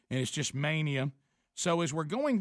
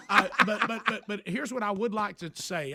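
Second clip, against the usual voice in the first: laughing, then pressing on; 4 semitones higher, 4 dB louder than usual. Real, not acted. Telling friends about the guards, laughing. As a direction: laugh it off and continue.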